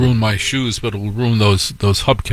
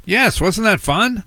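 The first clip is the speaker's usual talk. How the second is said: high, slow, sugary sales voice; mock cheerful farmer's daughter; chirpy farm girl; 10 semitones higher than usual. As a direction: sweetly rub it in.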